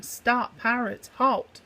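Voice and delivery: high, rising cat yell, loudest on halt. Acted. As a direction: shout to stop the thieves in their tracks.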